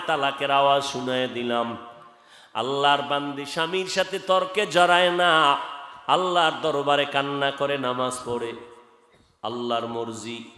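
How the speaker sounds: measured chant-like narration; melodic sermon storytelling. Real, not acted. Preacher narrating the wife's prayer and fear, measured chanting. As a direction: tell it in an even preaching singsong.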